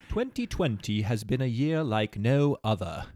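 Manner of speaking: slow, measured English accent. Shown as a demonstration. Co-host correcting the host's reading, English accent. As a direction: show how the English accent should go. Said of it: "You need a, an English accent".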